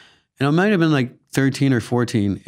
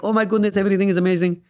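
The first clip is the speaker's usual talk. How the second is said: higher, wide-eyed sweetheart voice; Jaime, voice up; 5 semitones higher, faster than usual. Acted. Actor demonstrates his wide-eyed character, voice hiked up. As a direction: hike it up with innocent wonder. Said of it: "his voice sort of naturally went up here".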